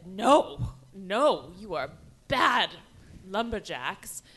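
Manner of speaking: put-on loud nanny scolding naughty children. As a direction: scold them like bad kids.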